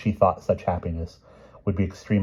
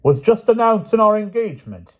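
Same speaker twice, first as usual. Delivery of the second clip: booming princess; 10 dB louder than usual. Acted. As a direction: draw out each word. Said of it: "boomed the Queen of Flanders".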